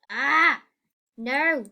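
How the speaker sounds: sudden alarmed cry; startled yell. Real, not acted. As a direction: yelp as you slip. Falling in the game.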